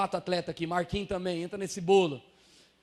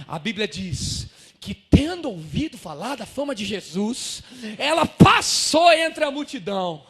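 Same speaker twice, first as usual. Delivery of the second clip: emphatic preaching; 5 dB louder than usual. Real, not acted.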